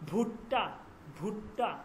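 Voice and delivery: "ভুট্টা" begun with an aspirated bh; aspirated bh demo. Shown as a demonstration. Teacher showing students how be plus he sounds, "ভুট্টা" with aspirated bh. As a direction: say "ভুট্টা" carefully, b and h merged into one sound. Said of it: "এই উচ্চারণগুলো কিন্তু আপনাদেরকে ধরতে হবে".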